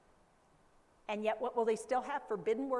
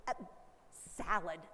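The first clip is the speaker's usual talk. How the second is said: apologetic; 4 semitones lower, 3 dB quieter than usual. Retold or imitated. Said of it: "at the end I say".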